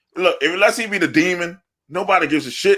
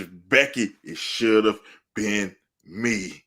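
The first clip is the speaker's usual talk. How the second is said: low, slow mock lament; drawn-out mimicry; 5 semitones lower, 3 dB quieter, much slower than usual. Host mimicking a wrestler talking to Becky, drawn-out. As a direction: plead slowly, stretching the words out. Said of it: "You like this".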